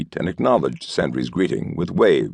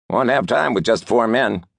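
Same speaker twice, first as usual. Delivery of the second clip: worried objection; 6 semitones higher than usual. A narrator's reading. Regipisk objects.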